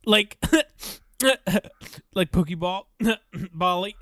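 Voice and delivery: giggling. Real, not acted. Giggling while explaining the joke.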